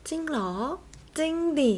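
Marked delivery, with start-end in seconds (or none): 1.2-1.7 จริงดิ said higher and louder with a falling end; จริงดิ as a surprised outburst, pitched up, then falling. Shown as a demonstration. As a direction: exclaim จริงดิ like real disbelief. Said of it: "จริงดิ หรือ จริงเหรอ".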